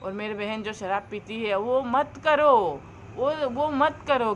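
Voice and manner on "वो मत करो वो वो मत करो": pleading. Real, not acted. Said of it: "हाथ जोड़ के बोल रही हूँ".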